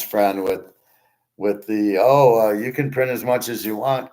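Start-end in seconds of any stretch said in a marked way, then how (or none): 2.0-4.1 louder, lightly mocking imitation; mocking quote. Host parodies money-printing believers to viewers, mocking quote. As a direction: mimic a glib claim with a raised voice.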